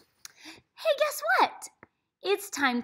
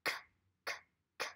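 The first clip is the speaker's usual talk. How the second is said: cat sound; 11 dB quieter, much faster than usual. Shown as a demonstration. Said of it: "this cat says".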